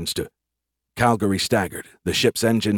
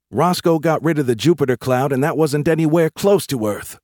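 high, louder insistent protest; arguing private, objecting; 7 semitones higher, 4 dB louder than usual. Acted. Private arguing the Sentinels will protect them, objecting. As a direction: press the objection, voice raised. Larry argues on.

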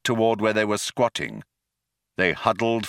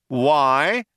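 short, louder shout; shouted question; 5 semitones higher, 4 dB louder than usual. A narrator's reading. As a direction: bark it back. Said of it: "shouted back Zaphod".

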